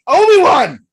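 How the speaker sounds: high, loud imitation of Vader's cry; hammed-up furious call across the room; retold Vader bellowing Obi-Wan's name; mock yell. Vader yelling for Obi-Wan.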